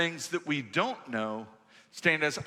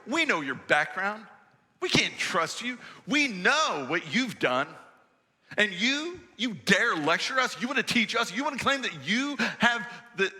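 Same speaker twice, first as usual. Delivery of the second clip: contemptuous Pharisee; 5 semitones higher than usual. Acted. Pastor voices Pharisees' contempt.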